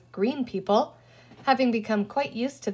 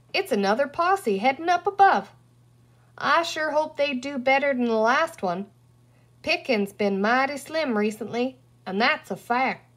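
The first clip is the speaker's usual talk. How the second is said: cowboy talk; 3 semitones higher than usual. Acted. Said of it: "He seemed to enjoy speaking in cowboy talk".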